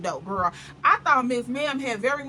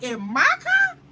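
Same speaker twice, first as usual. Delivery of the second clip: outraged disbelief; 13 semitones higher, slower than usual. Retold or imitated. Friend repeats her shock about her car, high outraged cry. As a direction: pitch the question way up in outrage. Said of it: "She was livid".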